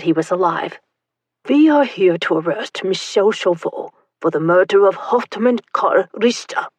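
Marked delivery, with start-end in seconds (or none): 1.5-6.7 barked. Acted. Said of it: "barked one of the men".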